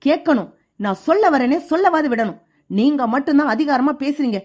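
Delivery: a son's hurt outburst at his father, lightly played; tearful angry shout. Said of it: "அழுகையோட கோவத்தோட கத்துறாரு". (லேசான அழுகையுடன் கோபமான கத்தல்)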